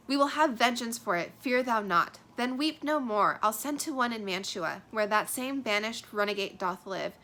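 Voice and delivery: lightly voiced plotting mother; vengeful mother. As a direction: promise poison for the enemy. Reading Lady Capulet's plan.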